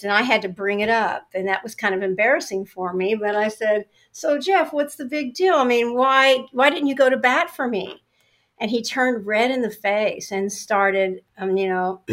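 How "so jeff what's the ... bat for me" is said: high, pressing challenge to the boss; indignant confrontation; pointed question. Retold or imitated. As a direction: demand an answer, pitched up. Confronting boss about award.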